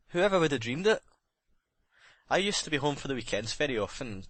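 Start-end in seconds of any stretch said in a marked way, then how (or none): 0.1-1.0 higher, louder, pained rising question; anguished cry. A narrator's reading. The sailor reliving his ruin, anguished and louder. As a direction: let the disbelief break out.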